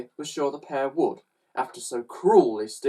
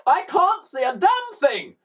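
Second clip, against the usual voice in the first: high, frantic driver's yell; 4 dB louder than usual. A narrator's reading. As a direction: yell it in exasperation. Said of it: "yelled Mister Glutton".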